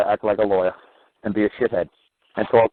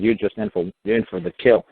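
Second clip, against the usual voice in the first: pitched way up, pressing hard; insistent high; 8 semitones higher than usual. Retold or imitated. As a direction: push it high and intense. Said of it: "I said".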